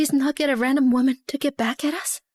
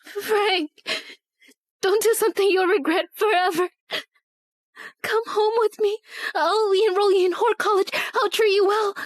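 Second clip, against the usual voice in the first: tearful pleading; 4 semitones higher than usual. Acted. Begging him to come home.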